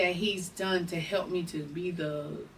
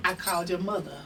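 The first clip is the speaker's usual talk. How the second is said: 1 choked up; 4 dB quieter than usual. Real, not acted. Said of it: "kinda choked up about it".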